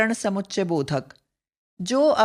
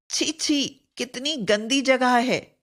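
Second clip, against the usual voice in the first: disgusted; 3 semitones higher than usual. Shown as a demonstration. Teacher demoing disgust at a dirty place, mock disgust. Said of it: "तिरस्कार तथा घृणा सूचक".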